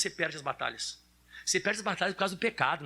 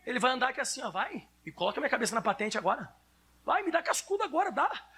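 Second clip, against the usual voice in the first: put-on taunting bully-proof kid; 6 semitones higher than usual. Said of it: "como é que ele vai andar?".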